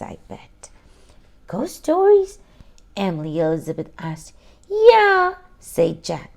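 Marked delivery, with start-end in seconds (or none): 1.5-2.4 high, loud startled question; surprised question. Acted. 4.7-5.3 high, loud and eager; eager yeah. Acted. Jack eager for ghost stories.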